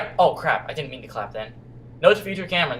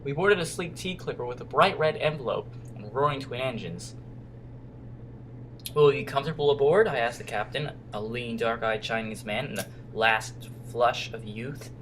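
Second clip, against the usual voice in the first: softer, lower storybook reading; story narration; 5 semitones lower, 6 dB quieter than usual. A narrator's reading. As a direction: read it like an adventure tale. Reads game story aloud.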